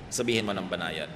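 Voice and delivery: soft, low voice; quiet, restrained counsel; gently. Shown as a demonstration. Advises saying it gently, voice drops.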